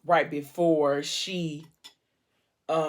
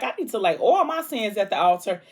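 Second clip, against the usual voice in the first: joking flirtation; 4 semitones higher, 4 dB louder than usual. Retold or imitated. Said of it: "if she don't crack a joke".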